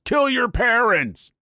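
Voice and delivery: high, drawn-out mock yell; retold metal yell. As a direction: imitate yelling along to black metal. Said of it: "he yells".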